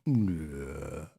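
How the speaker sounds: low, soft drawn-out noise imitating oneself; mimicked oblivious "nah". Streamer mimics missing the super chat on replay, low mock drone. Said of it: "I saw myself go".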